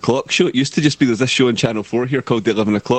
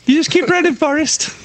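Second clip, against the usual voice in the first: Forrest Gump line. Pretend. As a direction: cheer him on like Jenny in Forrest Gump. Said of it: "I can't do accents".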